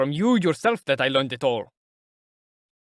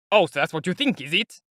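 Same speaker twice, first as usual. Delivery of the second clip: annoyed but sardonic; 4 semitones higher, 3 dB louder than usual. Acted. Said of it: "obviously annoyed, but maintaining the most cheerful and sardonic air".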